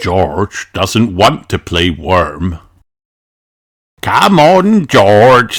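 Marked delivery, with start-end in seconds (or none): 4.0-5.6 Grandpa Pig voice. A narrator's reading. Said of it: "says Grandpa Pig".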